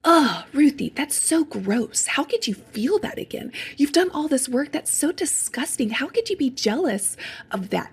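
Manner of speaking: mock disgusted scolding of herself; a hint of contemptuous inner critic; shaming self-talk. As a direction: sneer at your own jealousy. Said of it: "instead of being like".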